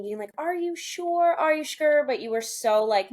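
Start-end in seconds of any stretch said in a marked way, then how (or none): 0.4-2.0 high, pressing disbelief; incredulous double-check. Retold or imitated. Friend asking if she's really sure, high incredulous voice. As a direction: push back as if you can't believe it.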